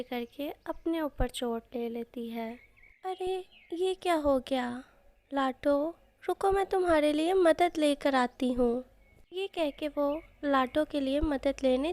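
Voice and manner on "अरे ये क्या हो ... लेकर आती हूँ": alarmed cry. Acted. Branch falls on friend, alarm.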